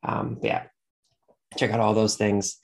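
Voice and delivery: blocked nose from allergies; stuffy nose. Real, not acted. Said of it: "Sorry if I sound a little stuffy".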